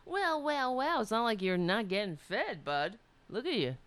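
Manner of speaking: a hint of a grumpy old cat talking; grumpy old man. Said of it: "like a grumpy old man".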